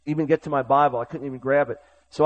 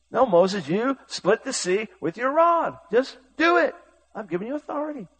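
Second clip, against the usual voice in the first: high, emphatic, slowed rebuke; God insisting; 7 semitones higher than usual. Acted. God telling Moses to split the sea, insistent. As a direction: press the order firmly home.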